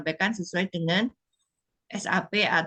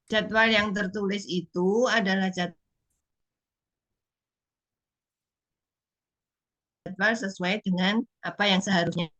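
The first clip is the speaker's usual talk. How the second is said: choppy connection. Real, not acted. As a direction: voice cutting in and out. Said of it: "Suaranya putus-putus".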